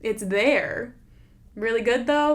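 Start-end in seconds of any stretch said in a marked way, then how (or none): 1.5-2.3 "Really good" repeated back with a questioning rise on "good"; doubtful. Shown as a demonstration. To her cohost, questioning her "really good" claim, skeptical. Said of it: "I'm not sure about that".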